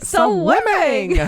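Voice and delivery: high, slow silly drawl; dumb drawn-out voice. Retold or imitated. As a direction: stretch it out dopey and high. Repeating the quote.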